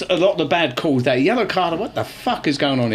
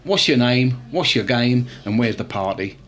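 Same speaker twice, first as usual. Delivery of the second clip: smooth pickup-line delivery; cheesy bar pickup line, falling lower to the end; 4 semitones lower, slower than usual. Shown as a demonstration. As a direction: sell it like a cheesy chat-up line. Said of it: "I'm gonna give you a hit online".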